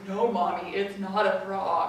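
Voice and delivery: mock-grave little girl, slowing down; dropped child voice. Girl correcting her mom, voice suddenly dropped. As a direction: imitate a kid suddenly dead serious. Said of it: "her voice dropped about ten octaves".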